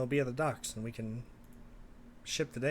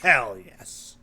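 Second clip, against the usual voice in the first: eager shout; 15 dB louder than usual. Acted. NPC eager agreement.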